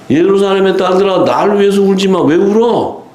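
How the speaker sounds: high, declaimed retold rebuke; mock scolding. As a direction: call out the rebuke in a sustained high pitch. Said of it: "그냥 막 뭐라 그러잖아요". (높은 음으로 외치듯 꾸짖는 흉내)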